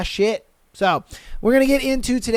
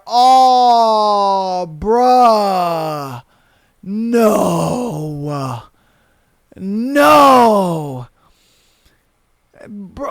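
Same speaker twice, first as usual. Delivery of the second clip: laughing groan; much slower than usual. Real, not acted. Cringing at pee story.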